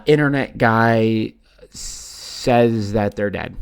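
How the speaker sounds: loud "oh", then drawn-out mock reasoning; mocking doubters. Host mimicking altcoin doubters' excuses, mocking. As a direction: imitate dim objections, slow and emphatic.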